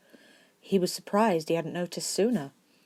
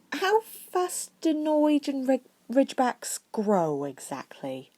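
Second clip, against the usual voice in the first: worried; 9 semitones higher, slower than usual. A narrator's reading. Hermione worried about size.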